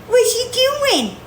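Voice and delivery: high, slow pet voice. Real, not acted. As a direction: coo slowly at the cat. Cooing to the cat.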